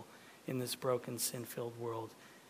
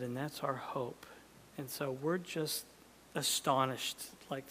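closing prayer. Acted.

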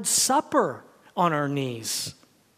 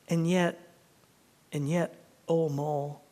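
story reading. Acted. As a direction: read it like a treasured passage. Reads Wind in the Willows.

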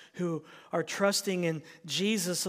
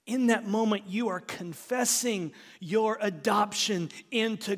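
raised, insistent sermon delivery; emphatic preaching; 4 semitones higher, 6 dB louder than usual. Real, not acted. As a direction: drive each confession home firmly. Preaches with force.

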